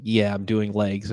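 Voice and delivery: slow, understated sarcastic reply; lightly mocking, dragged-out retort; imitated sarcasm. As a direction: mimic a sarcastic brush-off, drawn out. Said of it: "saying it sarcastically".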